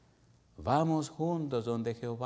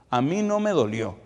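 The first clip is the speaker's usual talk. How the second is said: put-on a child's raised, pleading voice; son pleading; 4 semitones higher, 7 dB louder than usual. A son hugs his crying father, pleading, higher and louder. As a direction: plead to comfort crying papi.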